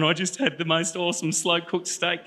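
a touch of drawn-out excitement; excited bragging. Acted. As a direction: act out gushing about a great find.

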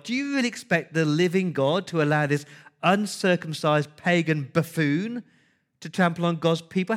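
outraged challenge; indignant. Acted. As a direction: voice David's outrage at the giant. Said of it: "That's the tone there".

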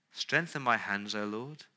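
a hushed closing prayer; quiet prayer. Acted. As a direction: pray it softly to God.

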